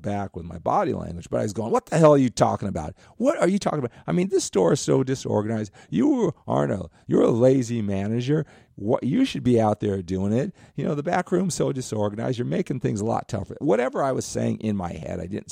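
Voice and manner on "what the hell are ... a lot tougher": imitating his own inner outburst, louder and higher; angry rant. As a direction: fire it back at the lazy manager, indignant. Inner rant against the boss.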